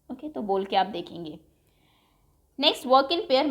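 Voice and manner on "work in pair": usual speaking voice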